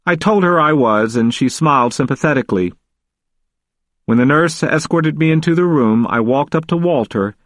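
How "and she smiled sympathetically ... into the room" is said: plain reading voice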